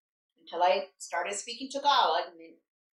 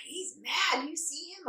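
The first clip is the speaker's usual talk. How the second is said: imitating mom; 6 semitones higher, 7 dB quieter, slower than usual. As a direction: play a mom commenting on the nurse. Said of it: "my mom doesn't know how to whisper".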